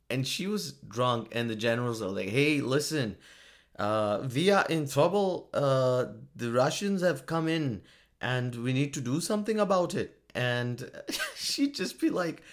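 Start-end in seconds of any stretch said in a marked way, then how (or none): 2.3-10.2 mock Finnish-accented general reporting trouble. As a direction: put on a stereotyped Finnish accent. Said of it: "that accent that I'm doing".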